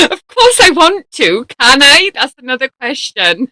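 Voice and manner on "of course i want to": laughing reply. Real, not acted. Laughing along with the joke.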